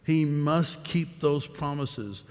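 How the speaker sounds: slow, deliberate weight on "must"; stress on must. Real, not acted. Preacher repeating the point to the congregation, stress on "must". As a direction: take it slowly, marking out "must". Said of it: "I emphasize the word must".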